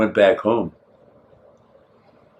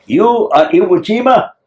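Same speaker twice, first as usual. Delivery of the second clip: high-pitched, incredulous imitation; imitating an astonished husband; amazed question; 8 semitones higher than usual. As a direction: ask it in awe, pitched well up. Voicing the amazed Japanese husband.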